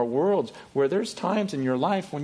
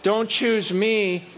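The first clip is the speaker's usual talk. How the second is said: whiny protest to God; 5 semitones higher, 3 dB louder, much slower than usual. Retold or imitated. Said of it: "you start going".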